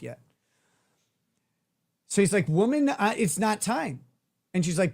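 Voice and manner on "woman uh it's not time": retold exasperated protest, higher pitch; annoyed. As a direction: put on a mildly irritated refusal. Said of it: "all happen while he's annoyed".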